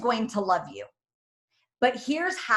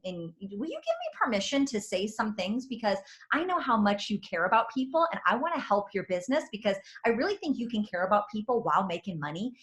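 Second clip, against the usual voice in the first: softer, sugar-coated cushioning before the point; mock gentle sweet-talk; 5 dB quieter than usual. Speaker imitating herself easing a sensitive friend into feedback, mock gentle. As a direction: tiptoe around the feelings, soft and sweet.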